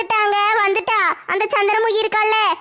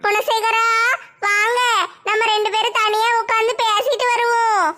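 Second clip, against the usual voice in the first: wailing ghost. Acted. Ghost pleads crying.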